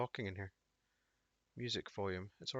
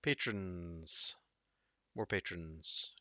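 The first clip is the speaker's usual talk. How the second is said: ordinary talk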